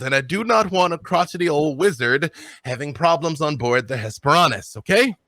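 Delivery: captain politely giving an order; insistent captain with pitch swooping up; commanding captain. Acted. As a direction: instruct your crew in a lofty, lilting voice.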